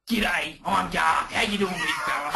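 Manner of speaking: laughing, hearty mock greeting, shouted at the end; fired-up Garth. Mate imitating Garth's pumped-up hello. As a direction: play it like a big, boisterous welcome. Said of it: "he's always fired up".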